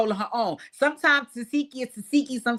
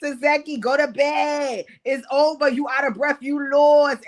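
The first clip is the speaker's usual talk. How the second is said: 1 bossy dismissal; 4 semitones higher, 4 dB louder than usual. Retold or imitated. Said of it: "she was like".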